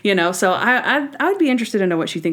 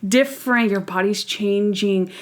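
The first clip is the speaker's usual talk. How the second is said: awkward, hammed-up staged lecture; hammed-up talk. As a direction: play an awkward parent reciting the talk. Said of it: "he is hamming it up".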